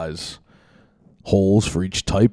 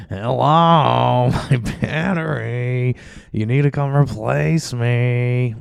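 slow, higher cartoon Jewish accent; louder drawn-out stereotyped Jewish accent; Family Guy Jewish voice; 5 semitones higher, 6 dB louder, much slower than usual. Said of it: "I don't do a very good Jewish voice".

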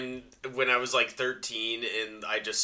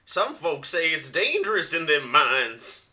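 put-on old prospector; 5 semitones higher, 4 dB louder than usual. Prospector bit, mine warning.

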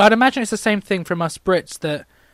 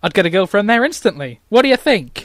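Colin; 4 semitones higher, 6 dB louder than usual. Acted. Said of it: "opinions of Colin the character".

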